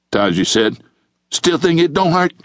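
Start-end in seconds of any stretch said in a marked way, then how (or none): 1.3-2.3 higher-pitched mocking challenge; taunting. Taji to the john he is choking, taunting. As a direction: needle him with the question.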